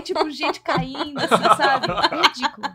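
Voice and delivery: usual speaking voice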